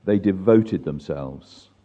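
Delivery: slow, measured scripture reading with long pauses. Real, not acted. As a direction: read it out slowly, phrase by phrase. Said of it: "let me read it slowly".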